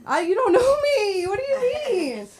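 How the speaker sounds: high wailing sob over the words; mock crying plea. Pleading through fake tears at the genie.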